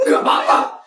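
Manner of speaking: hard scolding shout; angry scolding. Acted. Father berates Feli in front of the school, angry shouting. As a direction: tear into her in front of everyone.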